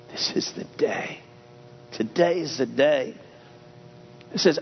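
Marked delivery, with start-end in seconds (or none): 0.1-1.2 whispered with weight on "is"; stress on is. Shown as a demonstration. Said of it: "You put that accent on any word". 1.9-3.1 "Today" pushed forward; stress on Today. Shown as a demonstration. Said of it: "You put that accent on any word".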